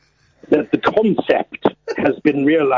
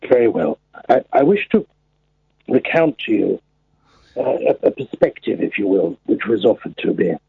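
put-on very old man. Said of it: "speak in your old man voice".

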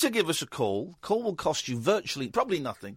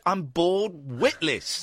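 mock politician; much slower than usual. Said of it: "he said".

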